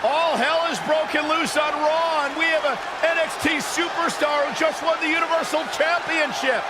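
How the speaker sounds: urgent announcer call; live commentary. Acted. Announcer hyping the chaos on Raw, excited commentary. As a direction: sell the chaos to the crowd.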